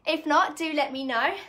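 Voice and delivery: short of breath after a workout. Real, not acted. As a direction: talk while still catching your breath. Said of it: "I know I'm a bit out of breath".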